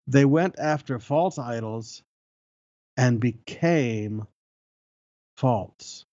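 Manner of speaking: long pauses before and after "became"; slow, weighty rereading. Real, not acted. Preacher rereading an amazing verse, slow and weighty. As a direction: let "became" and then "false" land separately, slowly.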